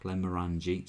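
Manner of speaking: Glenmorangie said evenly, stressed on MOR; correct pronunciation. Shown as a demonstration. Whisky host repeating the name for James, correct pronunciation. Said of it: "Not, not like an orange".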